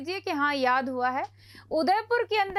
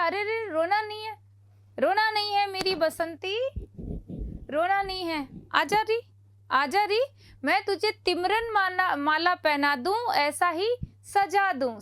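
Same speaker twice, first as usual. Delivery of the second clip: put-on comforting a crying girl; 3 semitones higher than usual. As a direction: coax Basanti like a film hero. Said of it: "Udaipur फिर कहेगा".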